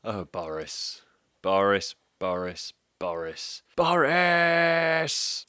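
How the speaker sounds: mock exasperated call. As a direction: scold him like a naughty child. Exasperated calling to Boris.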